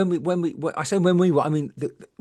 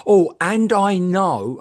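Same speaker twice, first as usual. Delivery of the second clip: slow, drawn-out knowing voice, a bit louder; mock knowing medium; 3 semitones higher, 5 dB louder, much slower than usual. Imitating the psychic building to a reveal, slow and drawn out. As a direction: stretch it out like a big reveal. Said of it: "She said".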